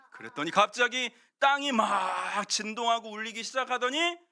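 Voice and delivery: ordinary talk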